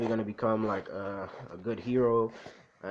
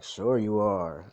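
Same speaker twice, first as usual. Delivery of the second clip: slow, louder, drawn-out sarcasm; sarcastic humoring; 5 dB louder, much slower than usual. Acted. Mother expects only pretend play, sarcastic humoring. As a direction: stretch it out as if playing along. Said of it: "being, like, sarcastic or something".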